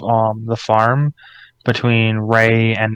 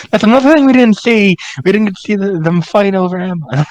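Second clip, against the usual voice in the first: laughing; 9 semitones higher, 5 dB louder than usual. Real, not acted. Laughing about missed fight scene.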